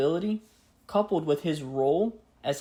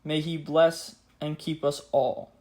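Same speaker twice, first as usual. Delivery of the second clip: grave 1940s war broadcast. Acted. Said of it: "Let us now hear the words of the king, just as they were spoken".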